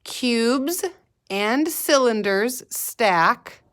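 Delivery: slow "Cubes", pause, then drawn-out "and cylinders stack"; slowed down for kindergarteners to join in; say-along pace. Shown as a demonstration. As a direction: lead a class saying it together, word by word. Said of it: "Say it with me".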